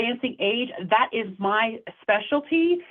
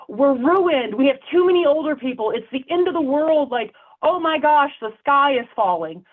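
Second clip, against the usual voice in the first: alarmist panic; 4 semitones higher than usual. Retold or imitated. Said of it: "people talk about the demographic cliff".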